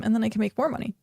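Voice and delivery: talking through the hiccups. Real, not acted. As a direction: speak while hiccuping. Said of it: "I'm hiccuping now".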